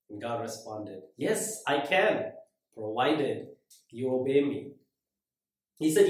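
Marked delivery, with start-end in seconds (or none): 1.2-4.7 quiet voice of God. Retold or imitated.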